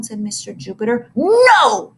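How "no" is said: loud, high yell; angry boy yelling no at his teacher. A narrator's reading. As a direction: scream the refusal. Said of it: "yelled Ashley".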